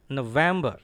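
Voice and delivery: November with a strong VEM; firm model no-VEM-buh; stresses on NO, VEM. Shown as a demonstration. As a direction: hit VEM in November and fall. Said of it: "Stress is on N and then V E M".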